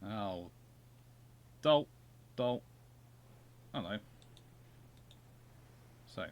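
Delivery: normal talking voice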